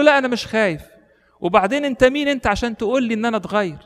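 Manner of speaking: defiant retort. Retold or imitated. Thief scornfully challenging the hermit, high and defiant. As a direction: throw the question back, scornful and high.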